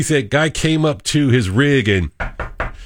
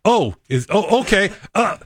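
higher, hammed-up sudden pain; faking chest pain; 7 semitones higher than usual. Cohost voices the man faking chest pain, higher. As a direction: suddenly fake a heart problem. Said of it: "you know what the guy did".

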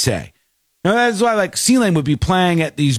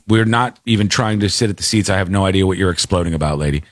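retold calm; 7 semitones lower, faster than usual. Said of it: "very calmly was like".

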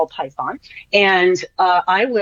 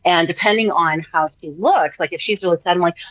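ordinary delivery

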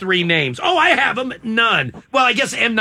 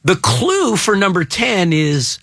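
spelling it out; 2 semitones higher than usual. Real, not acted. Spelling out clue to confused cohost.

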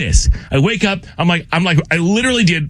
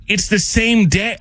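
slow disbelief; 4 semitones higher, slower than usual. Retold or imitated. Dawning disbelief retold.

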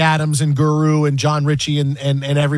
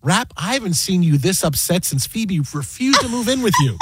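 dry, level delivery; host deadpanning a joke at Rappaport; deadpan. Retold or imitated. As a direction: say it bone dry. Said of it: "And I just deadpan".

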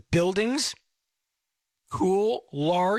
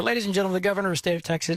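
rushed recap; much faster than usual. Retold or imitated. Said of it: "anyway, he comes up".

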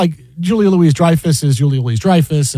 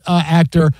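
ordinary talk

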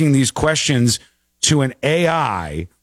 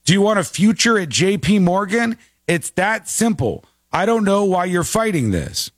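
mock warning; 6 semitones higher than usual. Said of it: "The person was warned".

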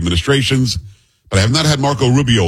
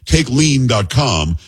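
slow ad tag; much slower than usual. Acted. Host-read ad, slowly repeating the address.

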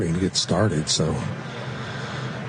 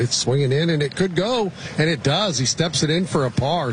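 excited; 7 semitones higher than usual. Real, not acted. Putt dropping for par.

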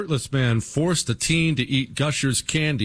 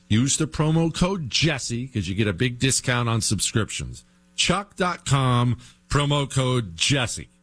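upbeat sponsor pitch; ad read. Acted. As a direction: sell it like a host ad read. Reads sponsor ad.

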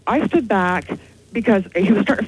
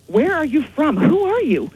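higher-pitched, rattled questioning; alarmed retold questioning; 5 semitones higher than usual. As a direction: relive the alarm, pitch climbing on each question. Retells questioning stranger, heart racing.

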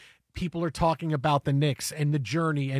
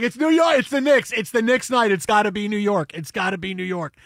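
insist, then settle; excited insisting; 3 semitones higher, 3 dB louder than usual. Retold or imitated. Pushing teammates to pick New York, excited insisting. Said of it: "I was like".

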